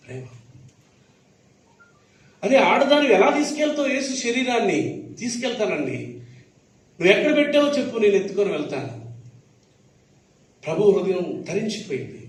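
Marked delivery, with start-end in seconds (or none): 5.2-9.1 insistent Mary. Retold or imitated.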